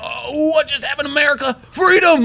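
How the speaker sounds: high, excited mock cheer; hammed-up awe ending in a whoop; mock patriotic awe. Family watching the eagle, high mock patriotic cheer. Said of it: "me and my kids and wife are like".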